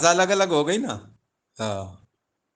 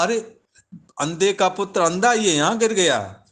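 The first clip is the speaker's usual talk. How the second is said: higher, jeering laugh-in-the-voice taunt; mocking taunt; 5 semitones higher than usual. Draupadi mocking the fallen Duryodhana, raised jeering taunt. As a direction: throw the insult down from above. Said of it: "वो द्रौपदी ने तो ऊपर से कहा".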